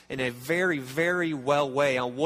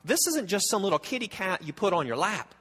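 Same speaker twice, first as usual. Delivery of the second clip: awed surprise; 4 semitones higher than usual. Retold or imitated. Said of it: "you're like".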